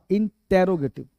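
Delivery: "इंटेरोगेटिव" with a clear "टे" before "रो"; correct pronunciation. Shown as a demonstration. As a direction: say "इंटेरोगेटिव" in five syllables, in-te-ro-ge-tiv. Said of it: "इसे इंट्रो मत पढ़ना". ("इंटेरोगेटिव" में "टे" और "रो" अलग-अलग)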